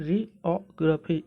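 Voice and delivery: जियोग्राफी slowly, with a short "gruh" for ग्रा; slow, measured जियोग्राफी; pronunciation model. Shown as a demonstration. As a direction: carefully model जियोग्राफी as jee-aw-gruh-fee. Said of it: "इस शब्द का sound कुछ इस प्रकार आता है".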